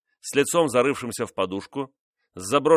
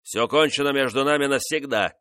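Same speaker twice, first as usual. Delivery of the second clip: louder, higher curt royal outburst; sharp shout; 5 semitones higher, 4 dB louder than usual. Acted. King rejecting his favourite, sharp louder cry. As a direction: snap it out as a final verdict. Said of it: "резко крикнул он".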